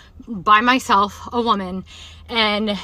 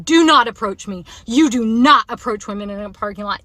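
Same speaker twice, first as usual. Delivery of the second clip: loud, firm lecture shouted at him; stern shouted warning to a stranger; retold yelling; 5 dB louder than usual. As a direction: yell the rule at the man. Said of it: "like, yelling it".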